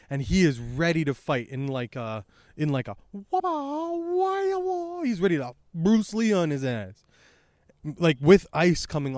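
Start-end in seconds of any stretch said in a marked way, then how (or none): 3.1-5.0 very high martial-arts wail; kung fu cry. Retold or imitated. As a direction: imitate a drawn-out kung fu cry. Mimics Bruce Lee fighting cries.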